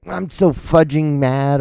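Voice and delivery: high, slow, prissy pretend anger; mock mad. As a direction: imitate a clean-mouthed person fuming. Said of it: "instead of using fuck, they use fudge".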